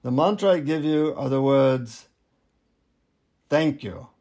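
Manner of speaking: lightly imitated Indian guru; a hint of an Indian accent, measured delivery. Guru confiding the mantra to a seeker, light Indian accent. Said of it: "in an Indian accent, he says".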